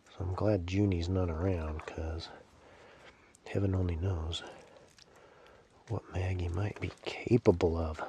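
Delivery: soft conspiratorial murmur; hushed aside. Real, not acted. Joking aside about dog.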